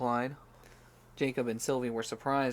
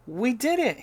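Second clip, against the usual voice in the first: loud, high cry of triumph; joyful shout; 12 semitones higher, 9 dB louder than usual. Acted. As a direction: shout it out in victory. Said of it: "he shouted".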